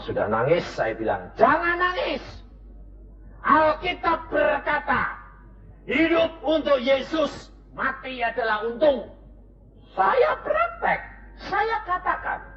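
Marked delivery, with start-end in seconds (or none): 1.4-9.1 preaching. Acted. Preaches to weeping family. 9.9-12.4 high, slow cry breaking into shout. Real, not acted. Emotional climax, cry heard.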